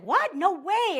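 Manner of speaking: high, surprised yelp of disbelief. Retold or imitated. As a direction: react like this is huge news. Ex hears about her competition.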